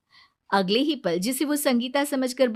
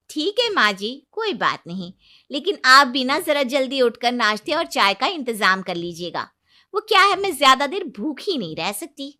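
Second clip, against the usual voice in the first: sweetly cheeky, louder at the end; sassy daughter-in-law; 4 semitones higher, 5 dB louder than usual. Acted. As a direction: bride answering back with fake politeness.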